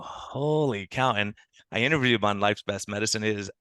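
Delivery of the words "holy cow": slow amazed. Retold or imitated. Retells amazement at fast results.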